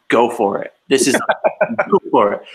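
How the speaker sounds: loud, punchy egging-on; mock bartender cheering someone on; encouraging. Bartender cheers him on, retold.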